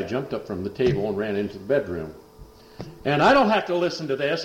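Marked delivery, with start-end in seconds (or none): 3.0-4.4 higher, louder indignant outburst; mock storming off. Son storming off from the preacher, higher and louder. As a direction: huff it out indignantly.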